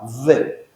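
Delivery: "V" with a soft v consonant; v sound, not b. Shown as a demonstration. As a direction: pronounce the letter as "V", never as b. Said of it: "ça se prononce pas B".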